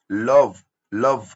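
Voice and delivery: लव stretched slowly, ending on the v sound; drawn-out demonstration. Shown as a demonstration. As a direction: draw out लव with no vowel after the v. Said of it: "ई का sound नहीं आ रहा है".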